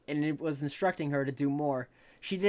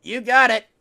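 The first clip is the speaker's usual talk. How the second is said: higher, louder eager dragon; squeaky baby dragon; 9 semitones higher, 14 dB louder than usual. Acted. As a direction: chirp it out brightly. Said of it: "replied the baby dragon".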